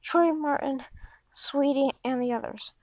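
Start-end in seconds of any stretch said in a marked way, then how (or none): 2.0-2.7 whisper. Acted. Trailing off the intro list.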